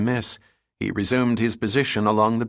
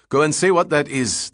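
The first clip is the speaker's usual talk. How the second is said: higher-pitched, urgent command; ordering; 7 semitones higher, 4 dB louder than usual. A narrator's reading. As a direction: send him off with a serious order. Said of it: "the partner ordered".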